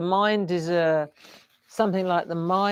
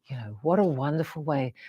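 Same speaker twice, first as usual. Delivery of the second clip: softer, gently content take; cheerful acceptance; 4 semitones lower, 7 dB quieter than usual. Retold or imitated. Mimicking the grateful self embracing the work, softer and content. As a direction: let it sound easy and grateful. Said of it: "or you can say".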